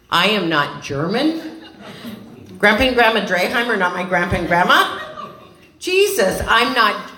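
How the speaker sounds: slowed, stressed NOT, then a high laughing cry on Jesus; frantic laughing disbelief. Retold or imitated. Retelling hearing she's not German, mock panic. Retold shock at news.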